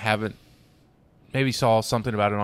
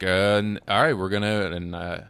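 halting imitation of a flustered presenter; stammering word vomit; 2 semitones lower than usual. Imitating the comedian thrown off after the slap, stammering. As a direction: trail through false starts, losing your thread. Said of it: "He kinda word vomits some stuff".

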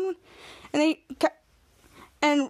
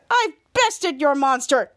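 gloating villain; slower than usual. Retold or imitated. Villain gloats over victory.

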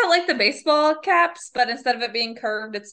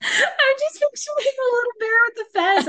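laughing; 12 semitones higher than usual. Real, not acted. Picturing a bear in a fez, laughing.

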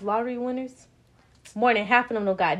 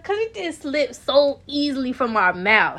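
higher, louder, laughing; 興奮して笑いながら; excited; 5 semitones higher, 6 dB louder than usual. Real, not acted.

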